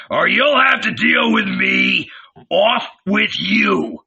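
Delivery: high, threatening shout. A narrator's reading. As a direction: shout a warning to back off. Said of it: "he shouted at them".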